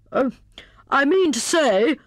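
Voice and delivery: high hare voice catching a slip; flustered recovery; hasty self-correction. A narrator's reading. Hare corrects his muddled motto, hasty. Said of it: "he corrected himself hastily".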